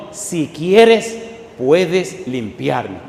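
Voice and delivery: mock pleading voice of the leper. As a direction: beg for healing. Leper begs Jesus.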